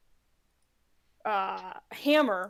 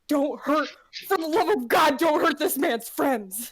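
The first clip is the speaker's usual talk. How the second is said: mild yelling; 3 semitones higher, 3 dB louder than usual. Acted. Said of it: "while yelling at him".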